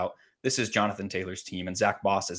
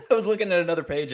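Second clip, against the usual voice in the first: laughing; 8 semitones higher, 3 dB louder, much faster than usual. Real, not acted. Laughs at cohost's statement.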